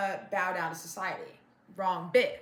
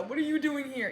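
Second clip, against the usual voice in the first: mocking sing-song; 5 semitones higher than usual. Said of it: "don't hit me with the".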